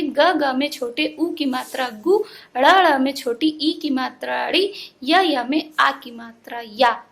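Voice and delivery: teacher's chanted spelling, building up to "गु", "ड़ी", "या". Shown as a demonstration. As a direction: sound out "गु", "ड़ी", "या" letter by letter with each vowel sign. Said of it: "तो इसको ऐसे पढ़ेंगे".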